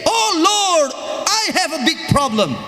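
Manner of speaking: high, mock-pitiful wail to God; whiny complaint. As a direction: play the defeated complainer. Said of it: "don't you say". (keluhan memelas yang dibuat-buat)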